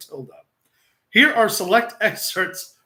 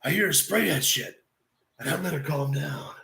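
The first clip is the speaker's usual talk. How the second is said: lightly voiced Jake Roberts, lower and looser; 5 semitones lower than usual. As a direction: tell it as Jake the Snake would. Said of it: "At least the Jake voice".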